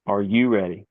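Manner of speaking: imitated referee check, unhurried; measured imitation of a referee; slowed-down referee call. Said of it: "I'm doing it a lot slower".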